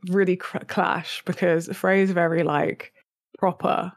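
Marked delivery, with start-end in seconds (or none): 3.4-3.9 proper, said as if in air quotes. Shown as a demonstration. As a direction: mark proper as a quoted word. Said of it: "in quotation marks".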